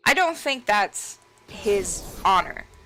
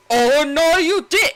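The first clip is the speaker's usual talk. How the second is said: very high, loud mock protest; hammed-up outraged old man; Gen protesting; 9 semitones higher, 9 dB louder than usual. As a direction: squeal it out indignantly. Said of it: "Gen's like".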